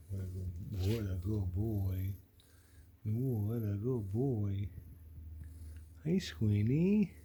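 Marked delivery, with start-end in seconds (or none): 0.1-4.7 tender. Real, not acted. Praising cat tenderly.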